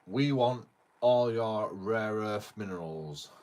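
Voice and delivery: loud, slow, greedy demand; mock Trump demand. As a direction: lean on each word like a pushy dealmaker. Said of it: "even Donald Trump said it".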